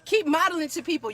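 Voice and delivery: excited cheer for a friend. Real, not acted. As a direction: lift him up with your voice.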